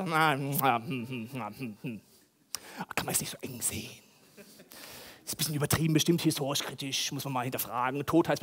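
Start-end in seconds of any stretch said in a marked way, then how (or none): 0.0-3.9 mock hedging reader.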